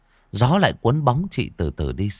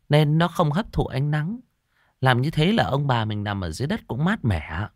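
a higher, fawning sales pitch; eager ingratiating woman; 5 semitones higher than usual. Acted. Scheming woman fawning to persuade the elders. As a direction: sweet-talk them into it. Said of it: "ả đứng dậy đon đả".

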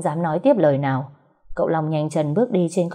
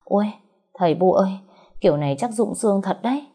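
whimpering; 4 semitones higher, faster than usual. Acted. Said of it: "xoa chân mếu máo".

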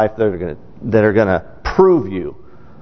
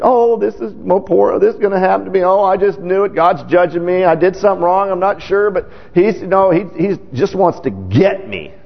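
whiny Christian; 6 semitones higher than usual. Retold or imitated. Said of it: "we could be like that as Christians".

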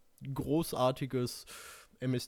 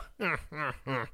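short, self-satisfied villain chuckle; smug chuckle; 5 dB quieter than usual. Acted. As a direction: chuckle as if victory is certain. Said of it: "grinste siegessicher".

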